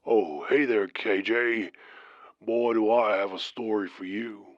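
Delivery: put-on Southern trucker's accent; deep Southern accent. Trucker calls the late-night radio show, deep Southern accent. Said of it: "he said in his deep southern accent".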